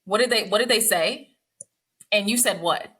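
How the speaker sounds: lightly indignant wife questioning; mock indignant wife. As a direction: grill him about being too nice. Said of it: "I really wish I could just be like".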